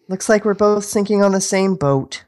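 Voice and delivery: acted line. Acting a script line.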